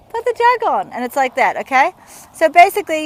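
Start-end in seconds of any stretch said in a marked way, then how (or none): 0.1-0.9 higher, louder demanding call; mock bark. Instructor acting out an impatient request to a friend, mock loud. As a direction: snap it at a friend not listening. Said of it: "you might be like, "Oi".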